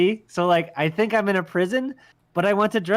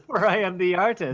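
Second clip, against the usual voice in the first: villain voice; 2 semitones higher than usual. Pretend. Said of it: "you have a villain voice".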